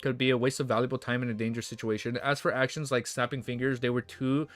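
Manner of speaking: steady read-aloud novel narration; audiobook-style reading; story narration. Acted. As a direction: read the chapter out to the chat. Streamer reads novel aloud.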